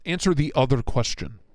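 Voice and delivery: the word answer pushed loud and firm. Acted. Repeats louder, demanding.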